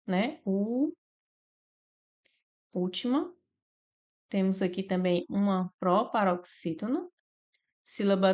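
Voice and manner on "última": última split as úl-ti-ma, úl stressed; syllable by syllable. Shown as a demonstration. Teacher splitting última into syllables for students. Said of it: "nós temos a palavra última".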